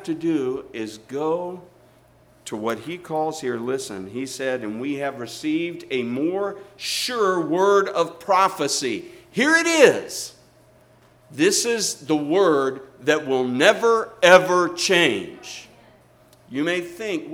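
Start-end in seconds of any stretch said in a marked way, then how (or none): 4.6-9.0 louder, slow, rising to a ringing prophecy; proclaimed quote. Acted. Preacher proclaiming the verse to his church, louder. Quoting Peter's sure word again. 9.3-15.7 preaching climax. Real, not acted. Preacher thundering to the church, much louder and slower.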